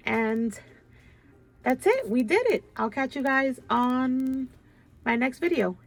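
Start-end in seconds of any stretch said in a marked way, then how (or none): 1.6-5.8 excited goodbye. Real, not acted. Cheerful video sign-off.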